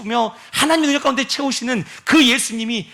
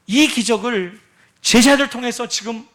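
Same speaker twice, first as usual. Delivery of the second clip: usual speaking voice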